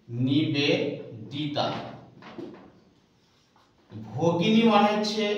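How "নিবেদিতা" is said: drawn out word. Shown as a demonstration. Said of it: "আপনাদের সূত্র দিচ্ছি".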